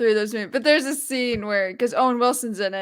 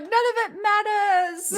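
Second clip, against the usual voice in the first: deadpan quote; 10 semitones higher, much slower than usual. Retold or imitated. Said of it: "The best part was like".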